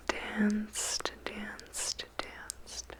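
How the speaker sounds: whispered word fading to nothing; fading echo. Acted. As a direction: let each repeat die away. Repeated word dying away.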